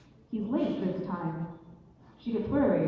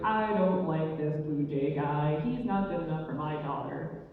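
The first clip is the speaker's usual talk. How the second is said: acted stern dad, pitched down; dad not having it; 4 semitones lower than usual. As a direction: lay down the law in a low voice. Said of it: "The dad was not having it".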